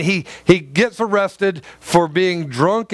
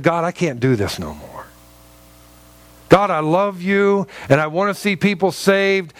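a worn-out prayer, pitch climbing as he pours it out; pleading with God like a man at the end of himself, slowing on "I am tired"; broken weary plea; 3 semitones higher than usual. Acted. Paul at breaking point crying out to God, weary and pleading. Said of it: "Paul just got to the point where he broke".

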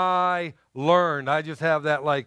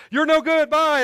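impatient dismissal; 10 semitones higher than usual. Retold or imitated. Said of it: "And I went".

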